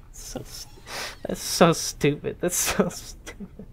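words breaking up with laughter; helpless, wheezy laugh through the words; laughing hard. Real, not acted. Player cracking up at the game, laughing.

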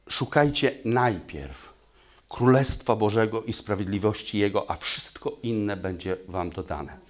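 slow, weighty scripture reading; slow emphatic reading. Shown as a demonstration. Preacher rereads the verse slowly for the congregation to sink in. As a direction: lean on each word, slowly. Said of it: "Słowo mówi".

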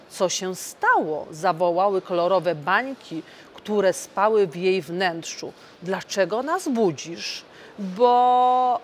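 lively read-aloud fairy tale voice; storytelling for children. A narrator's reading. MEP reading a Christmas tale to children, animated storytelling. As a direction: read the tale to the little ones.

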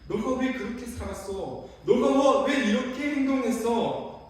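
imitated stern telling-off; acted scolding. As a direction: scold someone with drawn-out, forceful questions. Acted reproach Jesus would not make.

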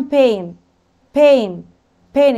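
بين with a drawn-out "ay" vowel; long A demo. Shown as a demonstration. Teacher showing pupils the long A, drawn out in بين. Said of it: "الإيه الطويلة".

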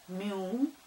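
spelled syllable by syllable; dictating. Shown as a demonstration. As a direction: say «Мю-зи-к-л» part by part, as spelled. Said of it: "Пишу". (диктует по слогам)

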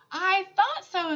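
put-on old woman gently proven right, smiling; with a smile. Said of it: "the old woman said with a smile".

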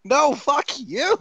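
high-pitched, drawn-out protest; exasperated outburst. Acted. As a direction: fire back in exasperation, voice leaping up. Exasperated row over interrupted reading.

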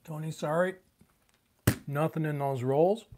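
chewing while talking; mouth full. Real, not acted. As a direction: talk through a mouthful of food. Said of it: "can hear me chewing".

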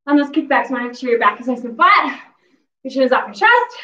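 breathless, panting between words; winded after the workout; out of breath. Real, not acted. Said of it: "Clearly, I'm out of breath".

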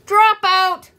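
high, loud jeering call; shrieked schoolyard jeer; children's shouted taunt. A narrator's reading. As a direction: yell it mockingly at a house in passing. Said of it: "older children on the way to school shouted".

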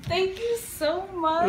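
mean every word; real tender gratitude; heartfelt thanks. Real, not acted. Overwhelmed by gift.

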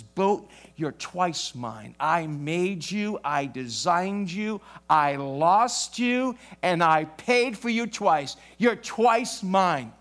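slow, tender words to a treasured boat; boy cradling his boat, speaking slowly and lovingly. Retold or imitated.

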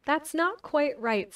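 the caterpillar corrects Alice, slow and lofty. Acted. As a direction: drawl it out slowly like a lofty caterpillar.

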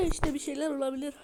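gum in the mouth while talking; chewing gum. Real, not acted. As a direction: speak through chewing gum. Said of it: "ağzımda sakız var".

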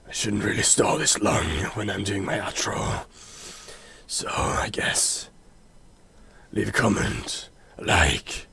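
soft, half-voiced put-on whisper; mysterious whisper. Holds whispery voice through note signature and outro.

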